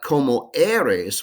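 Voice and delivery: "¿Cómo eres?" said slowly with a tapped r; slow Spanish model phrase. Shown as a demonstration. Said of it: "with that verb".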